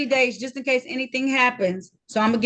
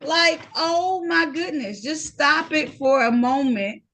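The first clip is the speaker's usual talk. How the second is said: exasperated; 4 semitones higher, slower than usual. Real, not acted. Judge exasperated at the defendant.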